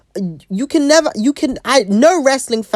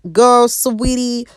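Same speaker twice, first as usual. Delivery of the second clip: condescending; 5 semitones higher, 4 dB louder, much slower than usual. Real, not acted. Condescending address to Mandy.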